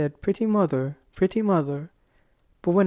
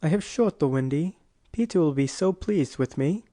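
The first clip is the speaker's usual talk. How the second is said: proudly, in a lightly voiced character; understated self-satisfied boast; 3 semitones lower than usual. A narrator's reading. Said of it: "he cried proudly".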